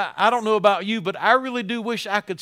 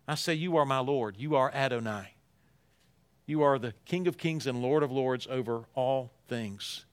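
hushed reverent proclamation; 6 semitones lower, 5 dB quieter than usual. Acted. Quiet voiced worship proclamation.

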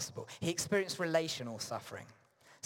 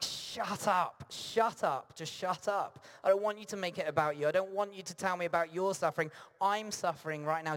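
fast, exasperated outburst; mock exasperation; 5 semitones higher, 3 dB louder than usual. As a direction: act out losing patience with a friend. Hurting person snaps at friend.

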